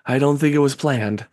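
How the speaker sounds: high-pitched, uneasy protest; flustered character. Acted. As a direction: object weakly in a high, put-on voice. Game master voices flustered figure.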